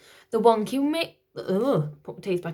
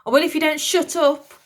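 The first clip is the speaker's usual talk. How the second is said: high, louder snappish nanny; old lady's threat; 8 semitones higher, 7 dB louder than usual. Acted. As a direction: threaten him in a cranky voice.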